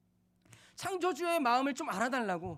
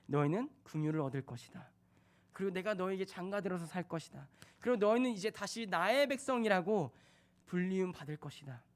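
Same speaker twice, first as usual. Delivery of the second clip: tender; 5 semitones lower than usual. Acted. God changes heart, tender.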